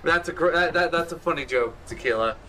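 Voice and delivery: flat robotic monotone; sounding like Alexa. Real, not acted. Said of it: "Out here sounding like Alexa".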